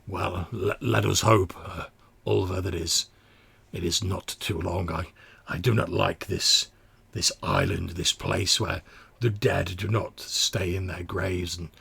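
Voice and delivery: lightly voiced uneasy smaller mutant; hesitant, subdued mutant worry; slightly mollified. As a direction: concede haltingly, still with misgivings. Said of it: "slightly mollify the smaller of the mutants".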